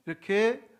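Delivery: usual speaking voice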